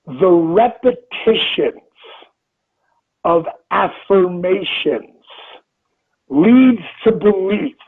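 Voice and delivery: slow, each phrase set apart with pauses; slow deliberate quote. Shown as a demonstration. Reading the quote to podcast listeners, slow and deliberate. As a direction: lay the quote down slowly so it sinks in. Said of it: "Here's the quote".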